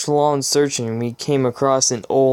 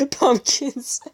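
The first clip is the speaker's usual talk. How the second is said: laughing disbelief; 12 semitones higher than usual. Real, not acted. Laughing at the absurd plot.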